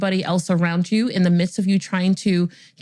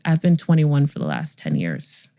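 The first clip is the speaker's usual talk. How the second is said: low, groggy deadpan; acted weak, just-woken mumble; half-dead; 5 semitones lower than usual. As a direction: drag it out low, as if barely awake. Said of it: "waking up halfway dead".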